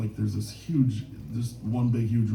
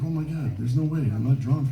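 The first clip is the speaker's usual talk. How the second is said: higher-pitched mock disbelief; retold shock; 4 semitones higher than usual. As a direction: act out being stunned by the news. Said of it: "I was totally shocked".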